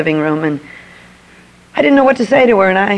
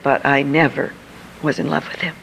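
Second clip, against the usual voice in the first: softer, tearful admission; tearful, fading; 4 semitones lower, 5 dB quieter than usual. Retold or imitated. Mother-in-law confesses she never loved him, quietly tearful. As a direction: let it fade into tears. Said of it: "she is crying".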